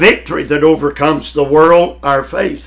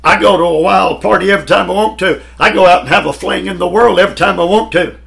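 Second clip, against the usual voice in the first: fast, raised, boasting; imitating D L Moody; 5 semitones higher, 4 dB louder, much faster than usual. Preacher quoting Moody's old boast, fast and brash. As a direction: rattle it off like a carefree drinker. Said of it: "D L Moody said it".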